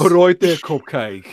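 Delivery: jokey English greeting, dropping at the end; hammed-up English banter; mock English accent. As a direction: put on a cheeky English accent. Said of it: "made fun of an English person for their accent".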